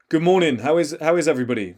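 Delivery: big, full-volume morning greeting; strong projected greeting. Shown as a demonstration. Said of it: "that sort of tonality, that sort of volume".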